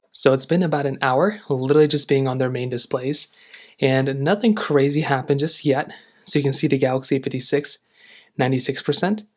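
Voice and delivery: breathless after running; winded, catching breath between numbers. Real, not acted. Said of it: "I'm out of breath 'cause I ran earlier".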